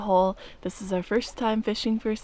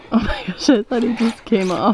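loud, urgent exclamation; alarmed shout; 7 dB louder than usual. Real, not acted. Companion thinks the hooked fish got away, alarmed shout. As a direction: blurt it out loudly in alarm.

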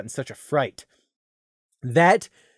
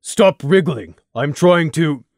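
louder strained scold; 5 dB louder, slower than usual. A narrator's reading. Struggling carrier scolding.

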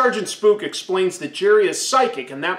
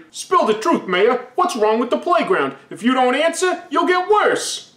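threatening ghost; 5 semitones higher than usual. Acted.

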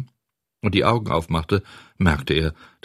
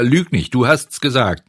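angry; 5 semitones higher, 5 dB louder than usual. Acted. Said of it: "Immer hitziger wird der Streit".

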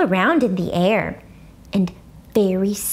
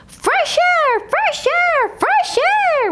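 joyful shout; much slower than usual. A narrator's reading. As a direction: shout it running out to recess. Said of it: "we all shouted, very joyful".

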